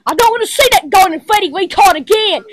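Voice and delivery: fast frustrated shouting at the screen; angry yell. Real, not acted. Kid yelling at the game, angry and fast. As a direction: rattle it off in a furious rush.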